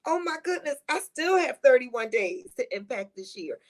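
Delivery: a high, bright opening gasp, then upbeat; mock delight. Friend reframing the countdown, high and excited. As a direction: sound thrilled by how much time is left. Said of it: "you should be looking at it like".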